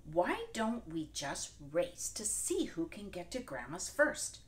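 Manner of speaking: sly wolf plotting. Acted. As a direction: lure her into a race. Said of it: "said the wolf".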